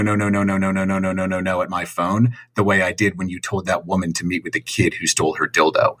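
ordinary delivery

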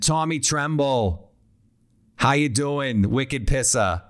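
light mock Boston accent, slow on "Tommy Tremble"; a playful, half-hearted Boston accent. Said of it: "wanna say that in a Boston accent".

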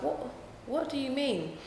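high puzzled retold question; baffled question. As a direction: act out not getting the word. Asking cousins about their words.

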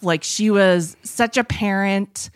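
slow, leaning hard on "such a parent"; stress on such a parent. Real, not acted. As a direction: drag out "such a parent" to drive it home. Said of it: "I can't stress enough".

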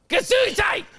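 high shrill falsetto shout; falsetto exclamation. Pretend. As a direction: squeal it out in falsetto.

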